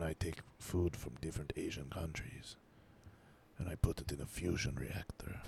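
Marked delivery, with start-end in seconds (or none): 3.6-5.4 whispering. Pretend. Deadpan joke, whispered.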